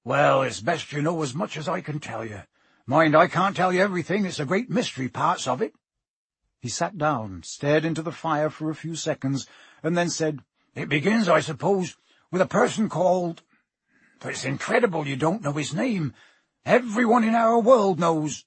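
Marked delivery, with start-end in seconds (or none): 0.0-5.7 lightly voiced rustic giant, hesitant; earnest, slightly guarded storyteller; Hagrid. 10.8-18.4 lightly voiced rustic giant, incredulous; hesitant explanation rising to disbelief; Hagrid. Voices Hagrid starting the tale.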